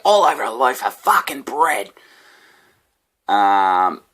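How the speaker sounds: high, loud aggrieved rant; homeless guy's voice. Retold or imitated. Homeless man coming at me about bread, mock outrage. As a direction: replay the drunk's indignant line. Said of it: "this guy just coming at me like".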